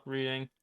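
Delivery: "Reading" said as REED-ing; REED-ing pronunciation. Real, not acted. Correcting own answer on the railroad, "Reading" as REED-ing. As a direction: say "Reading" with a long ee. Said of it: "Do you call it Reading or Reading".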